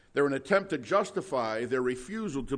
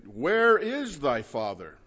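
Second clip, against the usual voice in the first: scornful question; 4 dB louder, slower than usual. Retold or imitated. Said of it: "you hear how that drips with sarcasm".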